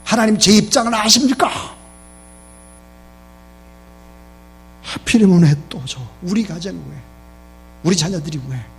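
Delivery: loud, high-pitched outburst of complaint; exploding in protest. Acted. Believer protesting to God over hardship, exploding in loud complaint. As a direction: argue it out loudly with God, imitating the aggrieved. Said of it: "폭발하면서".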